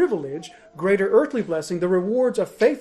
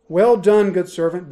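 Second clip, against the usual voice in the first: much louder, bold and declaring; ringing proclamation; 9 dB louder than usual. Pretend. Preacher booming God's praise to the faithful, loud. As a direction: proclaim it out to the room. Imagines God's words to you.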